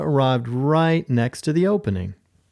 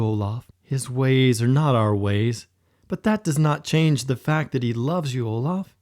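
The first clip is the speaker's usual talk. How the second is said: kind whisper. Acted. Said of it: "Thor whispered kindly".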